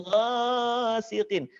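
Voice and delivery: "ghasiqin" with first vowel stretched; overlong vowel. Shown as a demonstration. Teacher warns against overholding, long "ghasiqin". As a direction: drag out "gha" in "ghasiqin". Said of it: "tidak kepanjangan".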